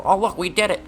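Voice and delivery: high-pitched mocking crow of triumph; mock boasting. Mimics opponents claiming the credit.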